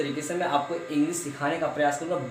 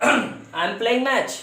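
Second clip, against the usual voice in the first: slow model sentence; 7 semitones higher, 5 dB louder, much slower than usual. Shown as a demonstration. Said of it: "teacher models sentence".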